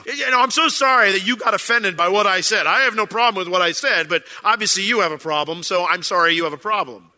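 mock non-apology. Mocking a celebrity non-apology.

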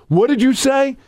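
high-pitched mock indignation; scowling challenge. Wrestler turning on the announcer mid-introduction, mock menacing. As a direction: imitate an offended wrestler confronting someone. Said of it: "turns around and scowls at me".

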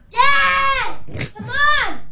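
shouting for dad; kid yelling. Acted.

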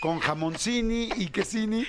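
slow fake Italian with -ini endings; hammed-up pseudo-Italian order; mock Italian. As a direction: order food in made-up Italian. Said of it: "ponerle ini a las palabras".

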